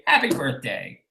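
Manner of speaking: dry, soft deadpan repeat. Real, not acted. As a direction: drop it quietly, deadpan. Repeated, dropped flat.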